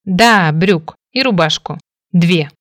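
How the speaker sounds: cross insistence. Acted. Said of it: "сердито настояла".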